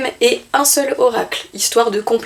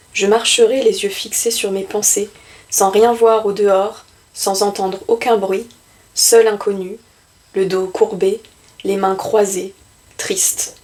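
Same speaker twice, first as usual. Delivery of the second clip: measured poetry reading with pauses between phrases; poem recitation. Acted. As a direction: recite it line by line, letting each image settle. Reads Victor Hugo's poem aloud.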